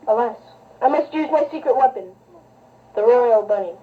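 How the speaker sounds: deep, grave royal voice; low king voice. Pretend. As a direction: speak like a solemn old king.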